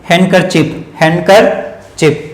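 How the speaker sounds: हैंडकरचीफ said as "han-ker-chip"; silent D. Shown as a demonstration. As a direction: drop the d in हैंडकरचीफ. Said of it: "डी word silent हो".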